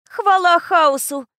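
slow, loud, high relieved cry; girl praising chaos; exhausted exclamation. A narrator's reading. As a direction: exhale it in exasperated relief. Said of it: "выдохнула Нани".

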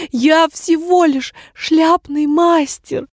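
slow high whine; drawn-out plea. A narrator's reading. Hatter whining to the king. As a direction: drag it out like a pitiful complaint. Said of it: "опять затянул он".

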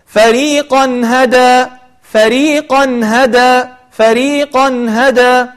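فريقا هدى very slow, tanween clear before the ha; recited example. Shown as a demonstration. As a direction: chant it slowly with clear nun.

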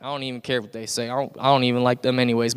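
feigned cool shrug-off; acting tough. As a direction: pretend you don't care. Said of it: "try to act tough and act like".

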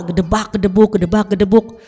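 rhythmic spoken thump-thump noises; imitated ball thuds. Mother imitating her son's football in a small house, thudding. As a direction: mimic a ball banging about the house. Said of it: "itu main bola".

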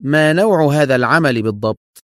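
composed inquiry; calm and serious. A narrator's reading. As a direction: ask it earnestly and evenly. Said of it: "وسأله في هدوء جاد".

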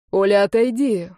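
injured Dima shouting at Olga to step away; pained shout. Acted. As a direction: cry out though it hurts. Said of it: "крикнул Дима сквозь боль".

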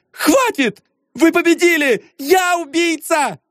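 high, anguished confession, slowing at the end; high cry of surrender; desperate shout. Acted. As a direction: break down and confess. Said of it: "крикнула она".

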